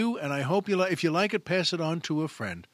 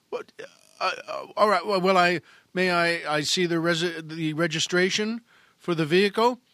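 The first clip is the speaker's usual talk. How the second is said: flustered cop; 2 semitones higher, 4 dB louder than usual. Acted. Flustered cop stumbling over words.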